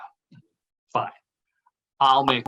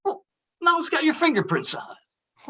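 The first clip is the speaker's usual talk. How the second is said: high, strained worried voice; fretting over the evidence; anxious scolding; 14 semitones higher than usual. Acted. Worried friend scolding Art about the fingerprints, anxious.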